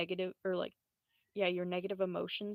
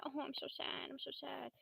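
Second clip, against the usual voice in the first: mock sad; 6 semitones higher, 9 dB quieter than usual. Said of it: "crying and shit".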